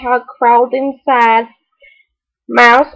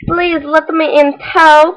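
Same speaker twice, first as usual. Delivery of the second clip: begging; 4 semitones higher, slower than usual. Acted. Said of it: "begged the rabbit".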